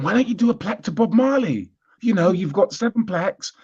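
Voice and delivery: high, hammed-up Jamaican accent; put-on Jamaican accent. Telling English Heritage to honour a reggae singer, in a mock Jamaican accent. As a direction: sell the idea in a playful Jamaican accent. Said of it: "I didn't say it in that, in that accent".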